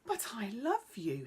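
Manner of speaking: crying out. Acted. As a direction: blurt it out, pleading. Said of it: "he cried".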